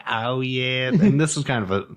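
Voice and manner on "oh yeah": weird made-up voice. Pretend. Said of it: "the weird voice I do sometimes".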